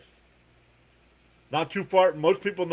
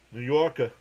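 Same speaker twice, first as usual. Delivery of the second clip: "Yorker" as "Yawkuh" in a New York accent; New York accent, drop the final r in "Yorker". Shown as a demonstration. Answering Miss Gina about the accent, playful New York accent. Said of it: "the accent a little bit for a New Yorker".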